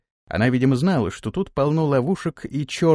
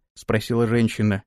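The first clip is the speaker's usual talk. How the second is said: ordinary talk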